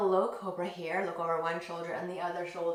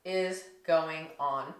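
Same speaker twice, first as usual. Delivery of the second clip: puzzled creatures; 4 semitones lower, much slower than usual. Acted. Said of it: "the other creatures in the jungle were like".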